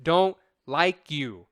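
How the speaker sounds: slow, deliberate rejection; mock studio brush-off; dismissive. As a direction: spell it out slowly, as a brush-off. Acting out studio's blunt rejection.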